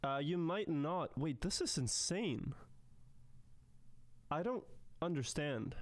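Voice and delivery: faint, quiet mic; barely audible. Real, not acted. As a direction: voice coming through far too quiet. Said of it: "why is my voice so quiet".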